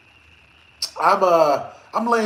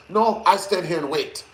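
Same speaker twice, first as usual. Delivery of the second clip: light Russian accent imitation; a hint of thick Russian accent. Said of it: "very thick Russian accent".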